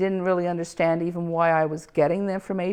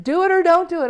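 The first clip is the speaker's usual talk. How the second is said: retold outburst; 10 semitones higher, 5 dB louder, faster than usual. Retold snapping at producer.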